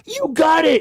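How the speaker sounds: high, loud mock speech impediment; waitress's speech impediment. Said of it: "She had a speech impediment".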